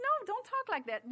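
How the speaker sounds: retold parental correction. Retold correcting of own child.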